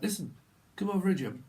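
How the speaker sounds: lightly imitated northern game-show host; a hint of a northern host calling someone over; Jim Bowen. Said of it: "it's a little bit like this Jim Bowen".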